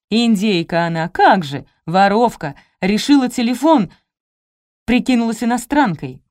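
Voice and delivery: loud angry accusation, punched out; indignant yelling. A narrator's reading. Guard grabs her from behind, indignant yelling. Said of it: "схватил меня сзади и завопил".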